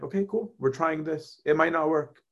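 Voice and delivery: easy, unbothered reassurance to yourself; relaxed and easygoing. Retold or imitated. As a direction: shrug it off as if nothing could go wrong. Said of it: "You'll be more at rest just being like".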